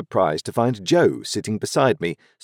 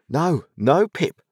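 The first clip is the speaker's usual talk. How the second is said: easy, comfortable reassurance, pitched higher; 9 semitones higher, slower than usual. A narrator's reading. Joe reassures Pip, in a comfortable tone. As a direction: settle him with an easy, homely comfort. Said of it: "said Joe, in a comfortable tone".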